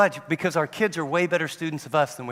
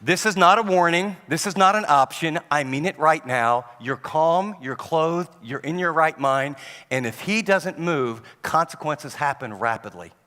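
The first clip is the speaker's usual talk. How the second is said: stern father voice. Retold or imitated. Father telling his child no options, stern and firm. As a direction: lay down the law calmly. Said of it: "The deep voice that says to them".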